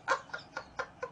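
breathless laugh. Real, not acted. Laughter trailing off after plea.

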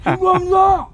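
korean military style. Acted. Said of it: "총성 이병".

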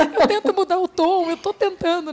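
high, loud pleading daughter voice; imitating daughter. Imitando a filha Giovana. (imitando a filha, mais aguda e alta)

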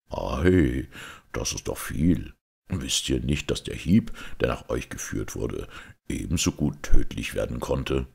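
low knightly voice, emphatic; a hint of grave astonishment, pitched low; impressed outlawed knight. Knight warns the blow could have killed, impressed. Knight answers Georg in story.

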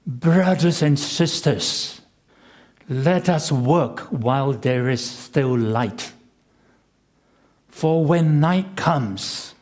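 slow, trembling plea; trembling old man. Retold or imitated. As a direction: quaver like an old blind man. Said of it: "In a trembling voice, full of passion and conviction".

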